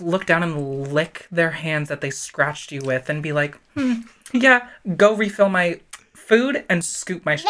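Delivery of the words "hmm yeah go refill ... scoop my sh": rude cat voice. Acted. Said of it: "Do your impression of a, a rude cat".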